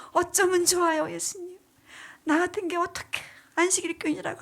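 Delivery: a retold desperate confession; tearful prayer. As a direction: voice lifted in remorseful pleading. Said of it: "하면서 제가 찬양하고".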